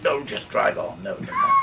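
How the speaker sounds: urgent shout. Retold or imitated. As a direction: panicky mock shout from the back seat. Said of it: "Viv's in the back saying".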